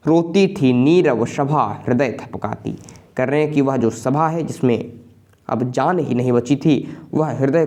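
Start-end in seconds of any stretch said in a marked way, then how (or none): 0.1-2.8 slow, lingering verse reading; slow recited Hindi verse; slow poem recitation. Acted. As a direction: let each image sink in.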